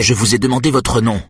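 loud voice. Acted. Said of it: "interrompt l'homme d'une voix forte".

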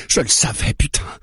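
"je le savais" jumping up high, stressed on "le". A narrator's reading. Mara realises he is one of them, raising her voice. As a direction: burst out on the repeat of "je le savais". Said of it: "dit-elle en haussant la voix".

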